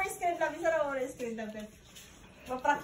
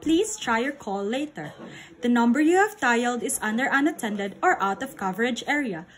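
phone recording voice. Pretend. Imitating phone operator recording.

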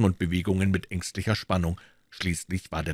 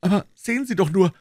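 calling out; 12 semitones higher, 4 dB louder, faster than usual. A narrator's reading. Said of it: "rief Silas".

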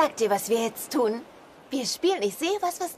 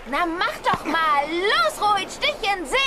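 eager urging; 4 semitones higher than usual. Acted. Treibt den Ruderer an.

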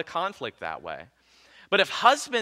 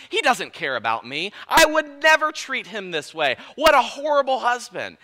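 rising, louder indignant wife voicing her hurt; hurt wife's complaint; 5 semitones higher, 4 dB louder than usual. Pastor voicing a hurt wife's inner complaint, rising indignation. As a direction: play the wounded wife venting, building up. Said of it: "and she will think".

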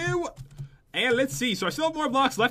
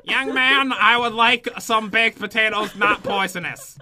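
hint of a fussy granny, louder and drawn out; lightly voiced grandma; 4 dB louder, slower than usual. Joking player demands food from friend, in a light granny voice. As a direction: put on a light grandma voice, stretching the words. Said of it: "You have to say it in the voice".

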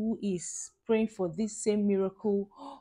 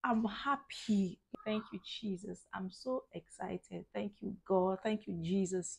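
much softer, slow hushed thanks; quiet happiness; 9 dB quieter than usual. Real, not acted. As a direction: hold back a shout, whisper your gratitude. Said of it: "I don't want to shout".

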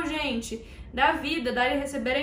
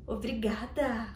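quiet, slow, simple thanks; just say it softly and stop there; a soft, unfussy thank you; 4 semitones lower, 6 dB quieter, slower than usual. Shown as a demonstration. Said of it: "você fala".

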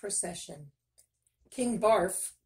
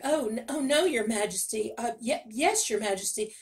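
nervous stammer, pitched up; blathering, stammering; 3 semitones higher, 4 dB louder than usual. Acted. Miller stammering to the king, flustered and pitched up. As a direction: stumble over the words in a panic. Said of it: "The miller blathered".

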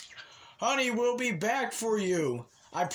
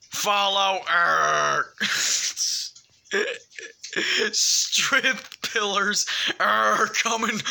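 louder, slow commanding movie-hero voice; Samuel Jackson voice; 5 dB louder, much slower than usual. Acted. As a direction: deliver the report slowly and loudly, like Samuel Jackson. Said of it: "My voice sucks".

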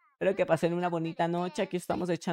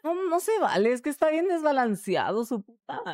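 higher whine of protest; whiny complaint; 8 semitones higher than usual. Real, not acted. Streamer protests a lost duel, higher whine. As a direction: whine that it's unfair.

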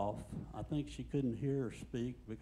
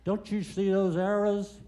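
sharp high yell, much louder; 5 semitones higher, 8 dB louder than usual. Retold or imitated. Little old lady yelling at him in the aisle. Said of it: "yelled at me".

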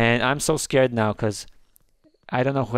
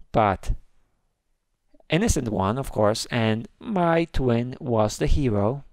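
usual speaking voice

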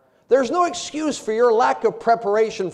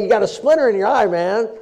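mocking; 3 dB louder than usual. Mocking the judgmental brother.

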